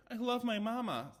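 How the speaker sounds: sing-song it like a pull-string doll. A narrator's reading. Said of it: "said the doll".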